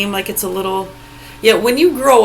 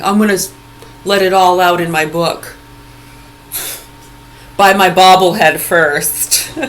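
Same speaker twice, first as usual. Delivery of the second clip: mock celebrity; 5 dB louder than usual. Mocking a has-been actor.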